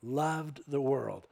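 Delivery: slow, stretched fill-in; drawn out loved the world; drawn-out answer. Shown as a demonstration. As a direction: let the congregation finish it slowly.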